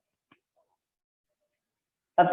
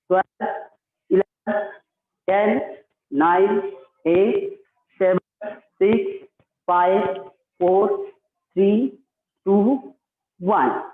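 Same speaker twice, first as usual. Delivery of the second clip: steady yoga count with rising numbers; drawn-out instructor's count; exercise counting; slower than usual. Acted. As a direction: count out reps, pausing after each number. Counts the repetitions back down.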